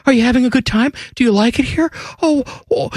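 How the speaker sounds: high, pleading mock host fishing for praise; needy, anxious high voice; mock insecure local. Columbus host begging visitors for approval, high and needy. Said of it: "we have this inferiority complex".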